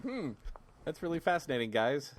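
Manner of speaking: understated sarcastic fascination; mock listener interest. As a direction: feign polite interest as a bored listener. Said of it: "It's like".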